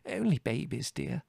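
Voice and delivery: high, soothing motherly appeal; smooth it over sweetly; placating. A narrator's reading. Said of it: "said Mother placatingly".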